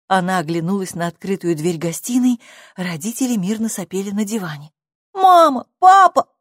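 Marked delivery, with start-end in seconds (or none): 5.1-6.3 put-on high, loud child's call. A narrator's reading. Girl runs in to wake her parents, calling out. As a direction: call urgently for your parents. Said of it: "позвала Сьюзи".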